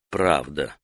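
low, soft thought to oneself; inward remark. A narrator's reading. Taita silently judges the answer, low inward voice. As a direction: say it under your breath, low. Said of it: "про себя сказал Таита".

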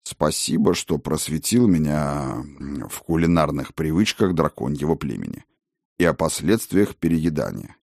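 dry dragon voice. Acted. Dragon answers dryly.

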